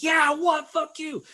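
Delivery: hammed-up punk taunt; imitated scream. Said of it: "starts screaming".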